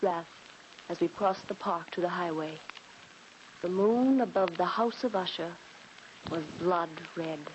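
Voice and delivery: measured storyteller's narration; story narration. A narrator's reading. Dina narrating the escape, measured and calm. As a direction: close the tale gently.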